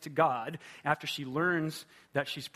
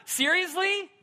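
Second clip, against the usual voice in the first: exasperated disbelief; 3 semitones higher than usual. Retold or imitated. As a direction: plead with him in rising disbelief, peaking at the end. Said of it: "And I'm going".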